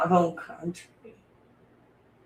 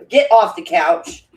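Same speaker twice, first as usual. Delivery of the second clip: stern dog command; 9 dB louder, slower than usual. Real, not acted. Scolding the dog.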